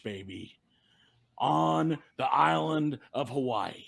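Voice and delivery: hyped-up wrestling promo voice. Pretend. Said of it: "give me a wrestling promo".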